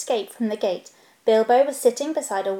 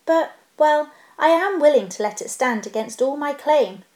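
higher, flustered hedging; uncomfortable; 5 semitones higher, 3 dB louder than usual. Acted. Bilbo offering the stone against his claim, flustered. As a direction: push past the awkwardness. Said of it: "said the hobbit uncomfortably".

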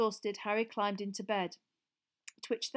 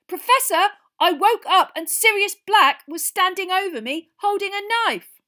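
high, loud desperate telling; urgent pleading; 12 semitones higher, 16 dB louder than usual. Acted. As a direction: make the teacher believe you. Ron pleading, still upset.

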